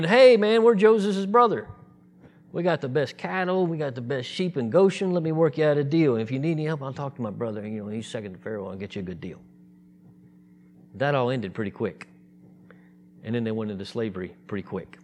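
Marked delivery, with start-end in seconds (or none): 0.0-9.4 a bragging relative whose boasting fades into a murmured deal offer; boastful brothers. Retold or imitated. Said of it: "it transitioned very quickly from them being".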